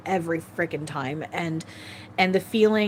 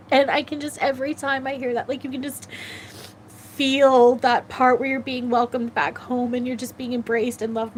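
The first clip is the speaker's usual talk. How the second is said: tearful; 6 semitones higher than usual. Real, not acted. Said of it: "make me cry".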